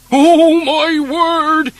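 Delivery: very loud, slow alarmed exclamation; startled cry. Acted. Mister Plod sees the pillar box coming, loud and alarmed. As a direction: cry out as it hits. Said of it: "he cried".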